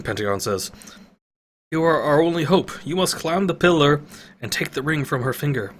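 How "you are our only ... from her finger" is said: higher, earnest appeal; pleading old wizard. Acted. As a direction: place hope in the hero. Pentagon voiced, pleading.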